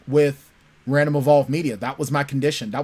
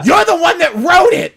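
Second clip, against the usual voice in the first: much higher and louder teasing retort; loud mock accusation; 13 semitones higher, 7 dB louder than usual. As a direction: throw it back at him, laughing. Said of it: "she goes".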